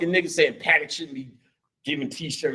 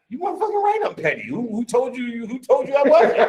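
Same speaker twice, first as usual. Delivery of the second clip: defiant outburst; 10 semitones higher than usual. Retold or imitated. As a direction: proudly own being petty. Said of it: "I'm like".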